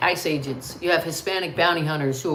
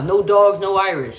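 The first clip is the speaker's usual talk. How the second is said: emphatic sign quote; 2 semitones higher, 7 dB louder than usual. Retold or imitated. Streamer quoting old anti-Irish signs, emphatic and louder. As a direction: punch out the sign's words, louder.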